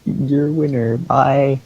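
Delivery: slow mock ring announcer; Lillian Garcia. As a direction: draw out the announcement, holding the last word. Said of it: "Lillian Garcia's like".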